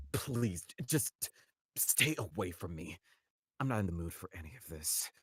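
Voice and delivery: low, soft, worn-out brush-off; tired and cold. Acted. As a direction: push them away wearily, no energy left. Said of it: "very tired and cold".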